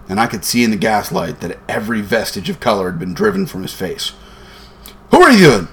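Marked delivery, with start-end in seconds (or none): 5.1-5.7 very high, loud, startled questions; quavering voice. A narrator's reading. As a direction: quaver in high-pitched alarm. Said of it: "he asked in a quavering voice".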